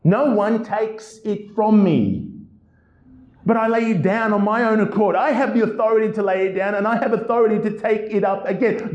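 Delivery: bold, confident reading of the verse; lively commanding read; read with authority. Shown as a demonstration. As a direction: proclaim it like someone in full command. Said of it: "Do our Lord's words sound like they're coming from the mouth of a victim".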